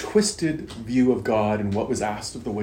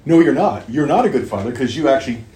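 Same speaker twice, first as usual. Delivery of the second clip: accusing elder son; 2 semitones higher, 6 dB louder than usual. Retold or imitated. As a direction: throw the accusation at the father.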